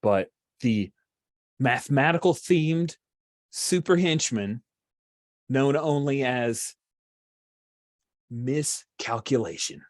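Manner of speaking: drawn-out villain reveal; slow down grandly toward the name; game master narration. Acted. Game master introducing a super henchman, dramatic reveal.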